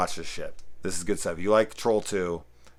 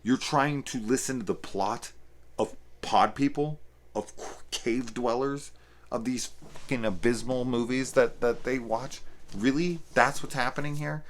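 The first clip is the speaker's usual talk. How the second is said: incredulous retort; 7 semitones higher than usual. Retold or imitated. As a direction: scoff at them in mock amazement. His retort to a complaining viewer.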